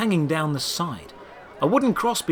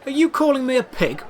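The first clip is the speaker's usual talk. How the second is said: higher, indignant question; a lightly voiced offended Diango; annoyed; 11 semitones higher, 4 dB louder than usual. A narrator's reading. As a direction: bristle at the insult. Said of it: "seemingly annoyed".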